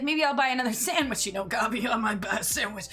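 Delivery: lightly voiced dirty old man; a hint of a lecherous old man; Honey Goblin. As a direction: imitate a dirty old man, quick then settling. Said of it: "Honey Goblin's dirty old man voice".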